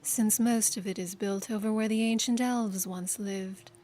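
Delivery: a bitter sneer. Acted. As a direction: spit the name with contempt. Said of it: "said with a sneer".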